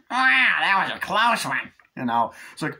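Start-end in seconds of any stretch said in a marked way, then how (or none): 0.1-1.7 high, loud drawn-out cry; near-miss yell. Retold or imitated. Character just escapes a crash, high loud relieved yell. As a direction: yell it slowly in a high put-on voice.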